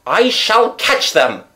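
high, drawn-out vow; determined cry. A narrator's reading. Raoul vows to chase the carriage, crying out. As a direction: cry it out with slow, urgent resolve. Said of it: "cried the young man".

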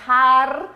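"Jar" com J raspado forte na garganta; rasped Spanish J. Shown as a demonstration. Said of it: "o J em espanhol, ele é raspado aqui na nossa garganta". ("Jar" com J raspado e mais alto)

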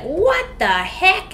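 put-on high, slow little kid voice; toddler voice. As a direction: squeak it like a tiny three-year-old. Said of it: "in her tiny little three-year-old voice".

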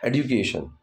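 एजुकेशन with a light dj blend, "ed-ju-ka-shun"; careful pronunciation. Shown as a demonstration. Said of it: "बहुत ही ड पे ध्यान देना पड़ता है".

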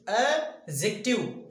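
"एडजेक्टिव" slowly in parts, a... jective, no d; silent d. Shown as a demonstration. Teacher modelling the word, "एडजेक्टिव" slow with silent d. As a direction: spell out "एडजेक्टिव" by sound, slowly, skipping the d. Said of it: "यहाँ पे डी silent होता है".

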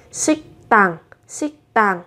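teacher stresses the doubled consonant in 식당; tensed doubled t in 식당. Shown as a demonstration. Korean teacher models 식당 for Vietnamese learners, tense t. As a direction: say 식당 with the t doubled and tense, sik-ttang. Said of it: "các bạn sẽ đọc gấp đôi phụ âm lên là".

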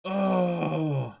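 high, loud gushing; excited. Real, not acted. Telling co-host about the best volume, excited gushing. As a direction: gush about it.

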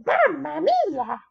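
shocked gasp. Acted. Gasp then shocked catchphrase.

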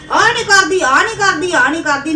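mock scold of a nagging mother-in-law; mimicking nagging mother-in-law. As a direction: throw her nagging back at her, mockingly. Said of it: "ਬੰਦੇ ਨੂੰ ਬੋਲਣਾ ਸਾਰਾ ਦਿਨ".

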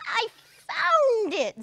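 high, loud triumphant call; excited cry. Acted. Ziz calling to God on the mountain, triumphant. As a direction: shout the discovery. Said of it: "Ziz cried".

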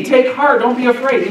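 mock-quote it briskly, without pausing; brisk hypothetical reassurance. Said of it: "No, he doesn't say that".

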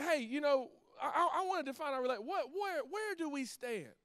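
put-on nervous girlfriend working up the nerve; hesitant Grace. Grace asks Jack where they stand, nervous and halting. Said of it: "Grace is like".

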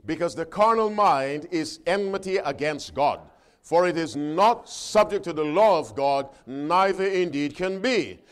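loud, emphatic scripture reading; preacher reading out with force; forceful preaching. Acted. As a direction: proclaim the verse firmly to the congregation. Reads scripture aloud to congregation.

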